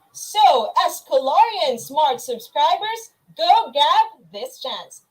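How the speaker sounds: loud, slow pitch to act; hyped call to action. Acted. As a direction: sell it with punch. Hyping listeners to join.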